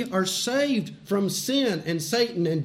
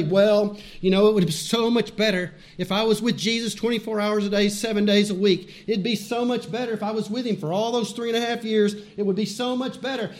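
lightly voiced, quick-talking churchgoer; fast, lightly mocking quote; imitating wishful churchgoers; faster than usual. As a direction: rattle it off like a common excuse. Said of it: "So many times people come and they'll say".

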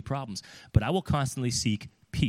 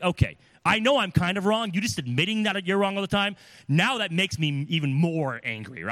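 higher, louder, exasperated complaint; mock irritation; 7 semitones higher, 3 dB louder than usual. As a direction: play the annoyed partner, half in jest. Other person irritated by fake apologies.

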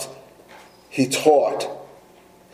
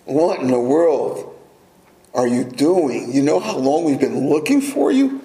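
exasperated parent. Retold or imitated. Preacher imitating a parent scolding a lost child, mock exasperated. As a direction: lightly play the fed-up parent. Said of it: "you said something similar to your child".

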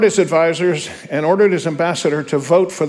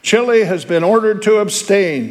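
said slowly; 4 semitones higher than usual. Acted. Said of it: "he said slowly".

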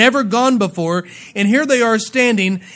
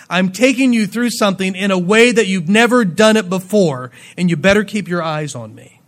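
mildly raised, insistent preaching voice; emphatic command; 4 dB louder than usual. Acted. Preacher voices God telling Israel to watch him, emphatic command. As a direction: press each instruction home firmly.

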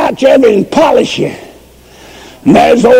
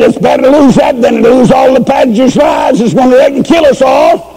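put-on frantic old woman; 5 semitones higher, faster than usual. Old woman pleads with flagman.

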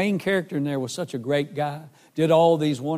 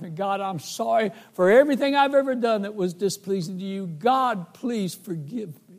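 tearful prayer; 4 semitones higher than usual. Retold or imitated. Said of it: "I wept my way back".

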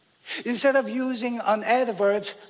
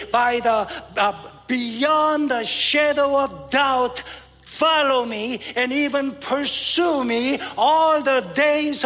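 preaching. Acted. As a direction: declare it with rising conviction. Reads his own paraphrase aloud.

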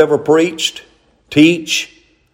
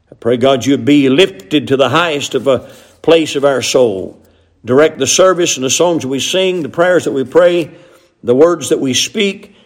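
praying. Acted. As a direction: lift it up to God, then fade. Leads closing prayer.

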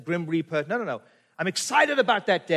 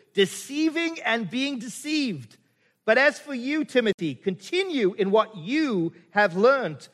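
scripture reading; 3 semitones higher than usual. Acted. Reads Paul's letter aloud.

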